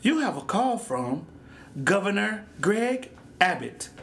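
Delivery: slow, even phone-assistant announcement; lightly voiced automated assistant; Siri voice. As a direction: read it out slowly like Siri announcing an incoming call. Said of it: "that's how I hear her talking".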